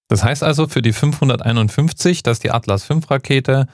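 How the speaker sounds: ordinary talk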